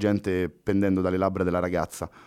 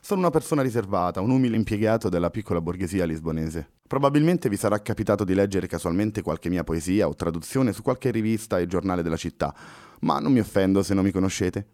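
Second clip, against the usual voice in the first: impassive. Acted. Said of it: "continuò impassibile Pessoa".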